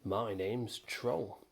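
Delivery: slow, puffed-up pride; a mild touch of self-importance; proudly puffed. Acted. Troll introducing himself to the boy, slow and proud. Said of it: "he proudly puffed".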